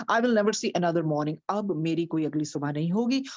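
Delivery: usual speaking voice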